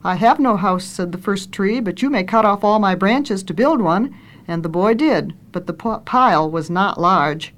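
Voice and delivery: storybook reading with lightly lifted dialogue; story narration. A narrator's reading. Reader tells how the boy grew up, story narration. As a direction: read a children's tale aloud, lifting the questions.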